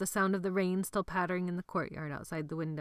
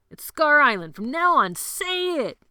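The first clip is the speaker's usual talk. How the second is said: louder and higher, ordering the chant; commanding shout; 9 semitones higher, 10 dB louder than usual. Acted. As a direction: call the boys to shout it.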